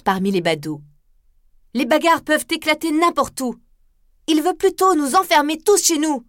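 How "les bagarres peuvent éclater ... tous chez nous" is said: put-on defiant gypsy girl. Esmeralda protests to crowd.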